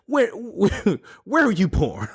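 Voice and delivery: French airport officer grilling him, in a put-on French accent. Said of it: "If it's not a good French accent".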